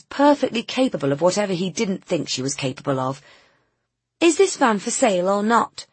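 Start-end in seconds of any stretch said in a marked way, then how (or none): 4.2-5.9 losing patience, she pushes back; loud, impatient. Acted. Nina loses patience with the doubting seller, loudly. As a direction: demand it, louder and higher. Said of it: "she said loudly".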